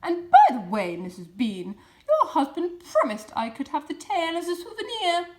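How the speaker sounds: loud, high call upstairs. A narrator's reading. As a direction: shout it up the stairs. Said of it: "she called out".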